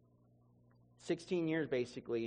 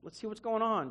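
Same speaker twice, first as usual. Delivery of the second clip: puzzled okay; 7 semitones higher, slower than usual. Retold or imitated. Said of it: "so I'm like".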